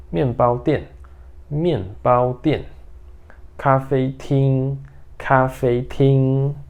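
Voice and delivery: each Mandarin word said twice, slowly and deliberately; review drill. Shown as a demonstration. Teacher reviewing the place words with the students. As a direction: drill the words for the class to repeat. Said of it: "Então, ó".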